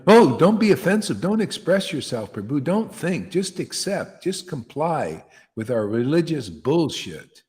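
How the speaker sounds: high, loud sneering parody of a timid preacher; mock them in a prissy pleading voice; mocking imitation. Preacher parodying gurus who tell devotees to comply, in a mocking high voice.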